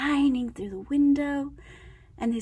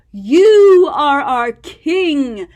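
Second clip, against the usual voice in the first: slow, louder solemn homage; bowing monsters; 7 dB louder, much slower than usual. Acted. Monsters bowing to Max, slow solemn homage. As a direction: proclaim him king slowly.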